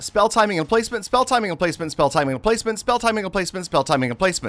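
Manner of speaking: rapid-fire, rattled-off repetition at top speed. Commentating a game, saying a phrase five times as a very fast tongue twister. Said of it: "Say that five times fast. Wait, I just did".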